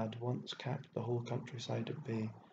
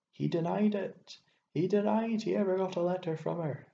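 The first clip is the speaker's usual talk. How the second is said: high, loud, outraged cry; loud, raised, impassioned accusation; resounding outcry; 8 semitones higher, 6 dB louder than usual. A narrator's reading. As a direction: let the voice ring out in distress. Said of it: "her voice resounded".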